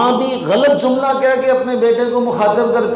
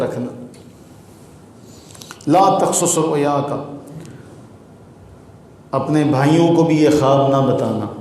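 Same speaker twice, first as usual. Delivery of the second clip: gentle loving warning; 5 semitones lower than usual. Shown as a demonstration. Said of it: "بڑے پیار سے کہتے ہیں".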